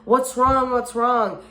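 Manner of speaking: pissed-off dad. Retold or imitated. Dad to his sobbing daughter, imitated as pissed off. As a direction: imitate an angry dad demanding answers. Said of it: "pissed. He's like".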